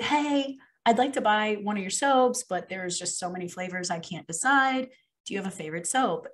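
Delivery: friendly approach. Retold or imitated. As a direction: politely ask a young seller for help. Retold friendly approach to young girl.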